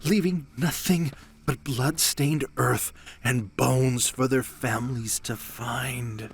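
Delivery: dramatic storyteller voice; ominous tale told like a narrator. Pretend. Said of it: "I'm practicing for my narrator voice".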